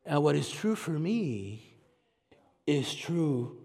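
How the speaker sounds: lazy low relativist impression, lightly mocking; different voice. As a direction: drop down into a dreamy mock voice. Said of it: "get my different voice here".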